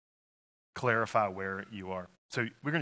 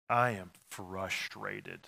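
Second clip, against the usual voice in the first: drawn-out frustration; much slower than usual. Shown as a demonstration. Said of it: "Have you used that word".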